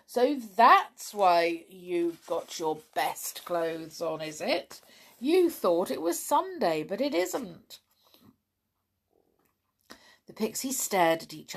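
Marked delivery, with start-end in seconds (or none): 0.1-7.8 lightly voiced amused postman; a hint of a jolly postman teasing. Postman teasing the pixies about their clothes, lightly amused.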